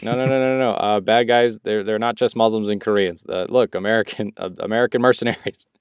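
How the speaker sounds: hammed-up defensive correction; mock backpedaling. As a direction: imitate someone scrambling to backtrack. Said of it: "They were like".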